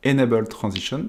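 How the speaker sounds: English words said with a heavy French accent. Real, not acted. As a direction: read the English term with a thick French accent, self-mocking. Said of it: "avec le bel accent anglais qui me caractérise". (anglais prononcé avec un fort accent français)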